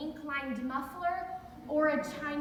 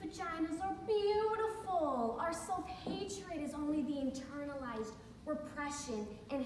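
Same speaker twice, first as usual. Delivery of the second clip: mock earnest affirmation; 3 dB quieter than usual. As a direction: recite it like a well-worn empowering mantra. Parodying feminist platitudes she knows.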